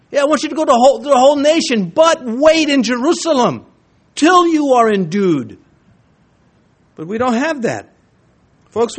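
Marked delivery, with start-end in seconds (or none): 0.1-5.6 raised, louder voice of Jesus giving the command; Jesus instructing his disciples, voiced higher and louder; voicing Jesus. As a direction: proclaim the order to wait in Jerusalem.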